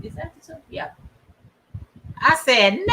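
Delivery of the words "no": long, high, held cry of "No"; drawn-out wailing no. Retold or imitated. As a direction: stretch the word out into a mock-anguished wail. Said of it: "That's how I sounded".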